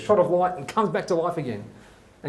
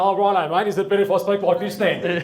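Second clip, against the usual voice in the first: silly, slightly raised voice; lightly higher, hammed-up silly voice; stupid put-on voice; 3 semitones higher, 4 dB louder than usual. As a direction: put on a daft voice to please a workmate. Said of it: "I've got to put this stupid voice on".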